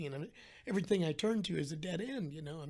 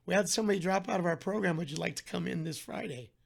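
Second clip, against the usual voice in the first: upbeat office caller; 2 semitones higher, 5 dB louder than usual. Retold or imitated. Doctor's office calls with good news.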